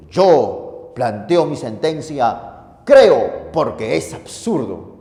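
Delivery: voicing Tertullian. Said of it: "el amigo Tertuliano dice".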